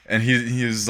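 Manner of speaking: ordinary delivery, nothing marked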